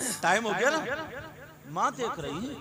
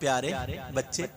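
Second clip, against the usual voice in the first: gentle calling; 10 semitones lower, 14 dB quieter, faster than usual. Acted. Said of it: "जैसे हम कहते".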